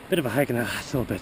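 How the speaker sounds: breathless after the climb; panting between words, rushed; out of breath. Real, not acted. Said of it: "sorry, I'm out of breath".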